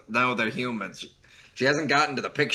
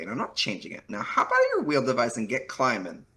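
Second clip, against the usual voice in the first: put-on Valley Girl voice; 3 semitones higher than usual. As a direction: play a smug Valley Girl. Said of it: "very good Valley Girl voice".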